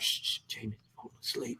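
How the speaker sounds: breathy whisper, no voice at all; hushed whisper. Retold or imitated. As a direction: shush them like a sleeping baby's nearby. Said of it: "everyone's like".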